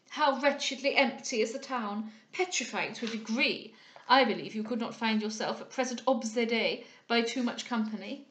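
lightly voiced self-satisfied captain, emphatic; a hint of a complacent society captain exclaiming. Captain making small talk to Cecilia, lightly affected and emphatic.

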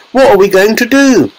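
high-pitched despairing wail. A narrator's reading. Mother despairs over shrunken son, high wail. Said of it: "wailed Missus T V".

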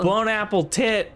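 put-on slurred, slow drunk mumble. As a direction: slur it like you're drunk. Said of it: "you sounded drunk".

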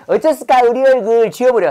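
Jeolla lilt on 어쩌스까, stress on 얼굴; playful Jeolla accent; Jeolla dialect. Pretend. Teacher recalls pun in Jeolla dialect. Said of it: "전라도 말로 말하는 거예요".

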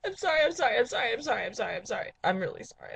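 sobbing sorries fading down; tearful apology. Pretend. Host apologising to viewers, tearful mock sobbing. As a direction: gulp out apologies through tears.

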